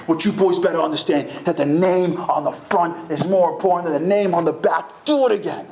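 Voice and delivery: mildly worked-up retold coach's order; demanding coach. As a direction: press the lesson on the players. Coach berating players mid drill.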